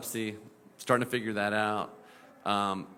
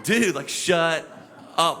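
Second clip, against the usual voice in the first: annoyed; 6 semitones higher, 6 dB louder, slower than usual. Retold or imitated. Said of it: "And I'm like".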